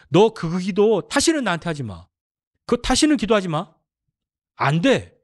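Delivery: God cutting off a pleading prayer; stern God. Retold or imitated. Preacher voices God forbidding prayer.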